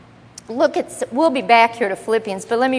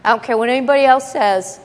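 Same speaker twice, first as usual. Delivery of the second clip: defiant attitude; faster than usual. Shown as a demonstration. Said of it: "you have to take that attitude".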